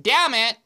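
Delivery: "damn it" run together with a long double M; own damn it. Shown as a demonstration. Explaining her spelling of her own damn it. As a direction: say "damn it" as one word, two M's. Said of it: "the way I pronounce it, right, it would be two M's".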